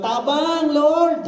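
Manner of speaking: high desperate cry, Tabang Lord; crying out for help. Retold or imitated. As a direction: shout Tabang Lord like a drowning man. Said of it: "hindi siya sumigaw". (sumisigaw ng tulong)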